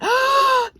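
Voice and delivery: sharp high gasp of delight; excited gasp. Real, not acted. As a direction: gasp as if you can't believe it. Gasp at the unboxed item.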